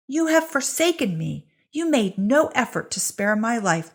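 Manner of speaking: loud, high accusation flung against the storm; shouting over wind. Acted. Marta accuses Dry Creek over the storm, shouting. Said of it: "Marta had to shout above the winds".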